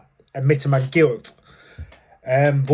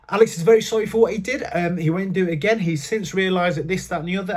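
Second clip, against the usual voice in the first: higher, fast, glib lawyer patter; mock solicitor; 3 semitones higher than usual. Solicitor pleading for his client in court, mock lawyer voice. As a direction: rattle it off like a bored brief. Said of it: "the solicitor's saying the same thing".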